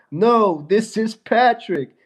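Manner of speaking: a light, slowed-down hint of a dopey cartoon starfish; Patrick Star voice. Mocking a pink friend with a slow cartoon-starfish voice. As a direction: drawl it out like a goofy cartoon starfish. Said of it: "Patrick Star".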